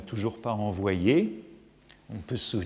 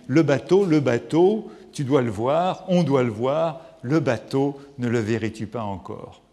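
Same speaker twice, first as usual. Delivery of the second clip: louder excited call, the word bateau rising; Tristan's cry; 6 dB louder than usual. Retold or imitated. Tristan crying out for the ship, louder excited call. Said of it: "Tristan s'écrie".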